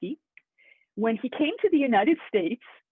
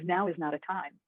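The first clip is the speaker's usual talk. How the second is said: mildly menacing, slightly lowered voice; threatening; 4 semitones lower than usual. Acted. Hitman pressing the storekeeper about closing, mildly threatening. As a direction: press the question with a touch of threat. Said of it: "He becomes more and more threatening".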